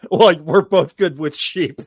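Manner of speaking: slow and laughing through it; chuckling out the punchline. Real, not acted. Joke about sheep, laughing.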